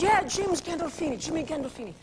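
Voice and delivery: light Irish lilt, said with a grin; a hint of the Irish bar regular; a mild Irish pub voice; Irish accent. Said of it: "your little Irish".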